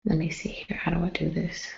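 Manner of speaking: muttered whisper while fiddling; whispered to self. Real, not acted. Vlogger whispering to herself while setting up the stream. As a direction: whisper it to yourself.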